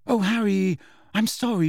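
high, mortified apology; contrite, stricken schoolgirl; horror-struck apology. A narrator's reading. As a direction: apologise in dismay at yourself. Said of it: "She looked horror-struck".

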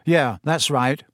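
casual brush-off; reply as if it hardly matters; offhand, everyday tone. Acted. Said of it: "said Harry offhandedly".

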